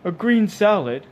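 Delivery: slow, high, loud incredulous echo; high-pitched, scornful disbelief; disapproving. A narrator's reading. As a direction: query it with disdain, drawn out. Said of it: "rolling his eyes disapprovingly at Arthur".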